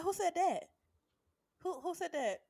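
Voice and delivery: who repeated high like an owl; owl-like hoots. Retold or imitated. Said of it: "I'ma be an owl".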